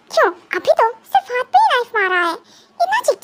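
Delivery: taunting with a laugh in the voice; mocking laugh. Psychopath laughs at the captive crying over a stabbed hand. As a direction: laugh cruelly at his pain.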